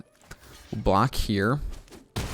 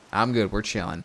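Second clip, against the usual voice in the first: laughing reassurance. Real, not acted. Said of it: "I've calmed down".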